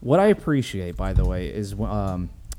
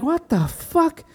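mock priest; slower than usual. Priest reacting in retold scene.

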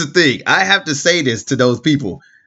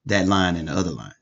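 oblivious bad parker; 6 semitones lower than usual. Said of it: "people who will literally see that".

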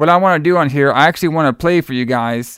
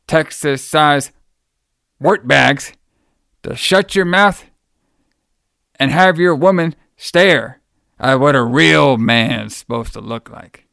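Rick Rude impression. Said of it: "this is my impression of Rick Rude".

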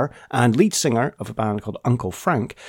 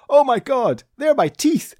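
mock gasping shock, pitched up high; hammed-up disbelief at the teeth marks; shocked realisation; 12 semitones higher than usual. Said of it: "And I went".

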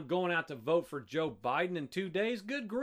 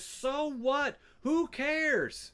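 higher-pitched mimicked indifference; mock dismissive; 5 semitones higher, much slower than usual. Preacher mimicking Christian America's reply, mock dismissive. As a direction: brush it off as the careless crowd.

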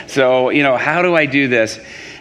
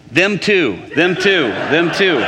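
higher-pitched, repeated insistent plea; imitated eager urging; 4 semitones higher, slower than usual. Waitress bringing cooks for prayer, imitated eager urging. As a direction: mimic her pressing the request.

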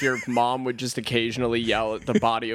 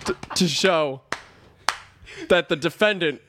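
slow courtroom lawyer voice, lightly laughing; honeyed southern lawyer drawl; 3 semitones higher than usual. Acted. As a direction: orate to the jury with mock gravity. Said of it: "in a court of law has done it like that".

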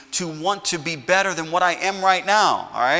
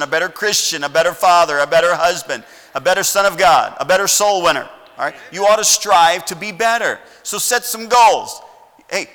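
raised, driving sermon exhortation; impassioned preaching; 3 semitones higher, 5 dB louder than usual. Real, not acted. Pastor urging the congregation to strive, impassioned preaching.

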